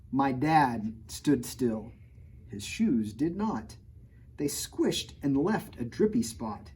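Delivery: lively picture-book read-aloud; reading to children. A narrator's reading. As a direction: read the rhymes to a kid audience. Reads rhyming picture book.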